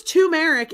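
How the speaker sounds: turmeric said too-MARE-ick; turmeric with a "too" start, no R; R dropped. Shown as a demonstration. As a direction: say turmeric as if spelled T-U-M. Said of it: "T U M".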